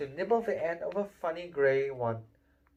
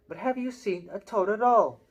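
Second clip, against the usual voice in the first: put-on higher, tearful little boy asking; a lost, upset kid's plea; 7 semitones higher, 7 dB louder than usual. Neville asking boys about his toad, tearful. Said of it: "He looked tearful".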